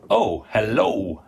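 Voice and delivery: slow hello, leaning into the second syllable lo; drawn-out hello. Shown as a demonstration. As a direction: stretch "hello" so the lo half lasts. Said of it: "the second syllable".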